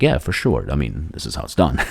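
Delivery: understated, playing it cool; composed. Young hopeful answers the secretary, mock composed. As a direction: act as if unfazed, softening toward the end. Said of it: "I kept myself composed".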